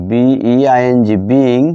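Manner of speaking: teacher dictating while writing. Shown as a demonstration. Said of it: "আমি নিচে লিখি".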